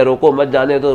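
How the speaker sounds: रोको as its own command, then मत जाने दो together; group मत with जाने दो, apart from रोको; comma after रोको. Shown as a demonstration. Astrologer repeating the comma example, break after रोको. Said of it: "अब कॉमा लगा दिया".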